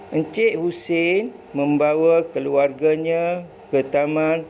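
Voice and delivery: clear, expressive story reading for pupils; model reading aloud. Shown as a demonstration. Teacher modelling the passage for pupils, expressive intonation. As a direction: read it as the example for the class to copy. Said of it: "perlu membaca dengan intonasi yang betul".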